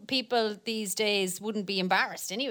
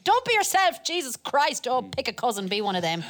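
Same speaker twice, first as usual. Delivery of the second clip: mock scolding parent; 3 semitones higher, 3 dB louder than usual. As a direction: bark it like a fed-up Irish mammy. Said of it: "what we were told".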